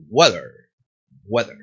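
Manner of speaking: low "Weather", syllables sliding together; dragged pronunciation. Shown as a demonstration. Teacher demonstrating English flow, dragged weather. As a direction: slur "Weather" gently into a weak ending. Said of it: "las palabras son mucho más arrastradas".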